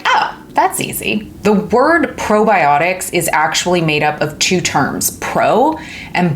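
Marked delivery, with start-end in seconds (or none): 0.1-1.3 high, soft, mock relieved voice; high mock voice of a student who finds it easy; imitating a relieved viewer. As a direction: play the viewer who suddenly gets it. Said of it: "And you're like".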